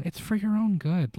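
high, lightly voiced calm reassurance; mock calm. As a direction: imitate someone calmly reassuring a victim. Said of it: "she's so calm".

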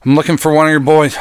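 fast, rushed and breathless; out of breath. Acted. Cowboy winded from climbing the stairs to the general, fast and breathless. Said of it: "I'm out of breath from climbing all these stairs".

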